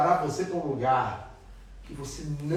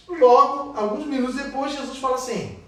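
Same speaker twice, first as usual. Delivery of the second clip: preaching at full force; 9 semitones higher, 7 dB louder than usual. Real, not acted. Preacher building to climax.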